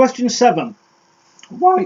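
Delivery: breaking, cracking voice. Reading out the next quiz question, voice cracking. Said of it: "My voice broke".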